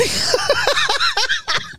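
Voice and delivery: shrieking laugh, pitch jumping way up; burst of high laughter. Real, not acted. Laughing at his own impression.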